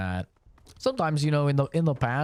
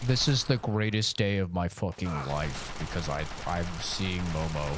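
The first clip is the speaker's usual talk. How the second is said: mock overjoyed; 6 semitones lower than usual. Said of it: "I'm not like".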